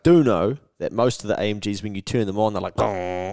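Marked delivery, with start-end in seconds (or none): 2.8-3.3 a mock engine "Gong" like a car starting up; imitated engine sound. An AMG owner copying its start-up noise, mock engine gong. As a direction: hum "Gong" as an AMG firing up. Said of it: "they make that noise".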